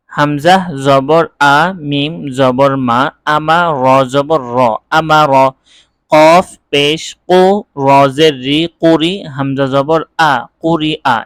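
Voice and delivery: measured Arabic spelling drill; teacher modelling syllable-by-syllable reading; spelling-out recitation. Shown as a demonstration. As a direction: chain letter, vowel and syllable evenly.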